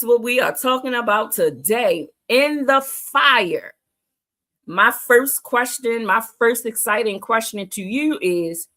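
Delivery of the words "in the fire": slow emphasis. Real, not acted. Repeated slowly for emphasis.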